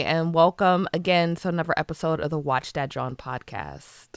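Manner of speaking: soft whispered welcome; whispering. Pretend. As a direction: breathe the intro in a whisper. Whispered podcast intro.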